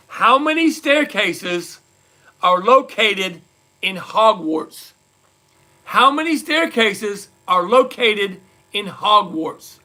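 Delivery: slow, deliberate trivia question; measured game-show host delivery; quizmaster question read. Real, not acted. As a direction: read it out slowly, phrase by phrase. Quiz host reads out question.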